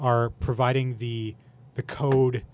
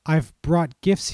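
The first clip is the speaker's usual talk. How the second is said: showman's announcement; 4 semitones higher, 5 dB louder, slower than usual. Acted. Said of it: "he said".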